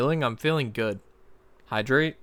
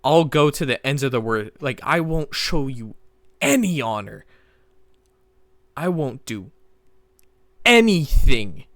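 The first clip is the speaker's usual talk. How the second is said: whisper yelling; 4 dB louder than usual. Real, not acted. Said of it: "I'm like a whisper screaming".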